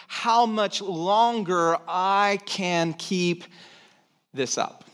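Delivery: slow, drained and defeated, fading at the end; weary, worn-out voice. Acted. Pastor voicing an exhausted churchgoer, slow and weary. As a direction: sound like you can barely go on. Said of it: "walked in this way".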